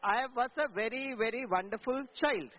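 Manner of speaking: put-on drawn-out, slow childlike boast; slow, savoured "very, very wonderful"; slow sing-song. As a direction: stretch each word like a proud kid. Children's sign-off line for parents.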